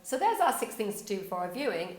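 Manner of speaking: lively lead-in to an offer; inviting wrap-up. Shown as a demonstration. Demonstrating a better blog ending to viewers, inviting wrap-up. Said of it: "Or does it go".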